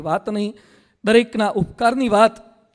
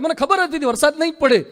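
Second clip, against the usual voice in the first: mock smug boast; 7 semitones higher, 3 dB louder than usual. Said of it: "અહીંયા બેઠા બેઠા".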